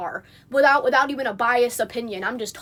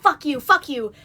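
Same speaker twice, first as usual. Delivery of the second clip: mild mock yell, a little louder; mock screaming; 3 semitones higher, 5 dB louder than usual. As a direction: imitate her cussing with a half-hearted yell. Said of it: "while she is screaming at me".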